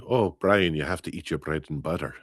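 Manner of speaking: light Irish lilt, brisk through the end; Irish accent. Shown as a demonstration. Host demonstrating her starter phrase for the accent, lightly Irish. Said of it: "that would be the Irish accent".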